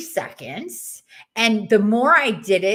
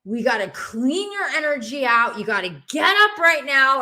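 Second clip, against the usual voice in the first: urgent command; 5 semitones higher, 4 dB louder than usual. Retold or imitated. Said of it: "it was like".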